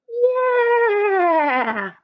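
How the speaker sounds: high, drawn-out bleating yeah; sheep agreeing. Acted. Sheep agreeing with the grandmas, bleating. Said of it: "agree the sheep".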